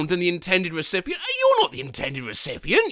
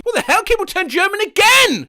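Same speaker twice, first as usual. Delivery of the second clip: high surprised outburst; 13 semitones higher, 4 dB louder than usual. Real, not acted. Keyboard switched to German.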